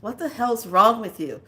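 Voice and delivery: loud, irritated explaining; exasperated dad. Retold or imitated. Dad telling mom the power is out, loud and exasperated. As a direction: bark the obvious at a confused wife. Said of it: "my dad's voice comes out".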